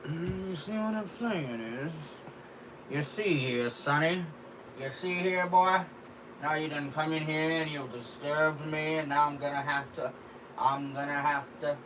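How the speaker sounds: put-on play-scold a boy who barged in; hammed-up "you see here, boy" voice; put-on character voice.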